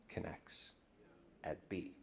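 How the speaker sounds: almost breathless whisper. Shown as a demonstration. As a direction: barely breathe the words. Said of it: "and the quiet".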